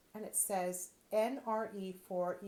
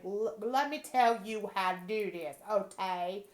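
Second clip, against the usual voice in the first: bossy lecture; 7 dB louder than usual. Pretend. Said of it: "In that kind of language".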